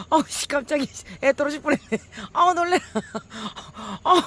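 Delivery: high, loud shaken exclamations; real fright still pouring out; startled yelps. Real, not acted. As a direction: still jolted, crying out in shock. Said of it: "소리를 너무 고락대기를 질렀나 봐요".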